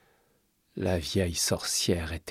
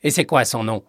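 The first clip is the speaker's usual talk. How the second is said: cold witch's question, slightly raised; icy; 4 semitones higher, 6 dB louder than usual. A narrator's reading. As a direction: question the child coldly and loudly. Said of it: "toujours d'une voix glaciale".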